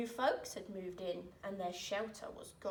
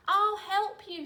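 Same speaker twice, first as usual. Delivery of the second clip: high, loud call; 10 semitones higher, 10 dB louder than usual. A narrator's reading. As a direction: call up to the pup from the water. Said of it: "she called".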